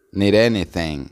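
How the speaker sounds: "need anything" as one linked word, tapped D; words joined. Shown as a demonstration. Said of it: "se unen y se pronuncia". ("need anything" todo unido, D como R suave)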